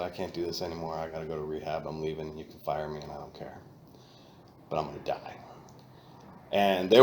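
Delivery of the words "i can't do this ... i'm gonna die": tearful. Retold or imitated. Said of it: "tears in my eyes".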